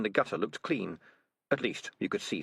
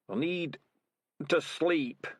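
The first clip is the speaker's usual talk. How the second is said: put-on weak old rat; 8 semitones higher, much slower than usual. Dying old rat voiced.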